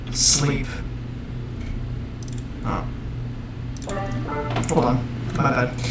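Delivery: eerie processed voice; voice changer. Acted. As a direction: whisper it through a voice changer. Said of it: "with the voice changer".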